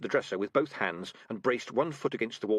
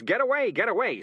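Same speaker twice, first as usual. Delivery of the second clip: high, loud sudden outburst; cat faking a loud blurted tic; blurting out; 11 semitones higher, 6 dB louder than usual. Acted. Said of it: "burst out and say things".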